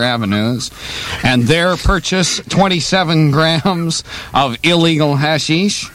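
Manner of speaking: put-on broad comic Mexican accent. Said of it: "How's my Mexican accent".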